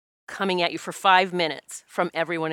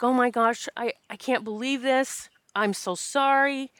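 higher-pitched, mildly distressed retelling; retold tearful apology; 5 semitones higher than usual. Caller phoning a friend after a death, mildly tearful retelling. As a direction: lightly imitate an upset apology, drawing out the end. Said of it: "I was in tears".

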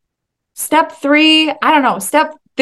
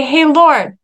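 higher-pitched, cheeky hail; 4 semitones higher, 4 dB louder than usual. Acted. Disciple boldly hailing Jesus on the water, cheeky. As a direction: call it out with light cheek. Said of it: "like, cheekiness to be like".

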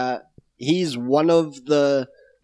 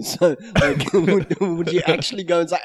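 usual speaking voice

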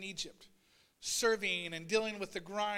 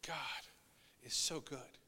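relieved sigh; 7 semitones lower, 6 dB quieter, slower than usual. Retold or imitated. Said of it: "taking a deep breath and saying".

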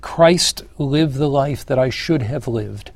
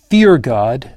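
a firm, raised-voice proclamation; loud voice; 6 dB louder than usual. Acted. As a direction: proclaim it louder, measured. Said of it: "says with a loud voice".

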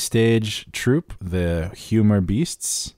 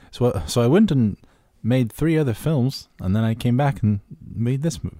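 a clumsy attempt at a New Zealand accent, quoting the director; bad New Zealand accent; 3 semitones higher than usual. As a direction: fumble through a New Zealand accent and half give up. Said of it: "I don't know how to do his accent".

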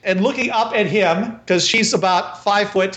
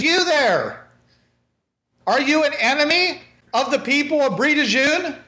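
a lightly higher woman's voice, questioning the stranger; 5 semitones higher than usual. Acted. Marie questions the stranger in a lightly higher woman's voice. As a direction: challenge the stranger directly. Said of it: "She says".

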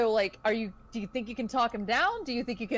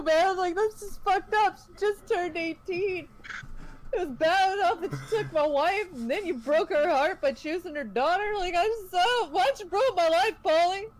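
put-on drunk wailing accusation; 7 semitones higher than usual.

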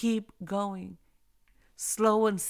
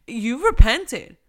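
emphatic declaration; 11 dB louder, slower than usual. Real, not acted. Emphatic sermon point.

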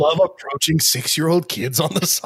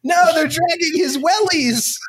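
mock alarm; 12 semitones higher than usual. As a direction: cry out in fake horror.

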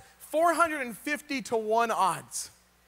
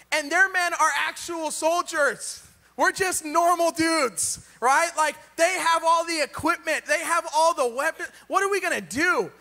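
pleading argument; 3 semitones higher than usual. Retold or imitated. Gideon arguing with God over enemy soldiers, exasperated. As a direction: lay out the hopeless odds, begging.

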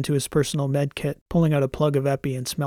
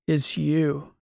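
raspy and weak. Acted. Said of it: "his voice raspy and weak".

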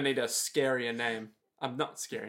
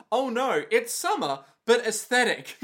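mock coat voice; 7 semitones higher than usual. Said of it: "whose coat screams".

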